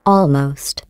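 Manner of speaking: "Almost." set apart and weighted as a pointed correction; a dry, deliberate "Almost."; stress on almost. Acted. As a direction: lean on "Almost." so it stings. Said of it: "I want to stress that".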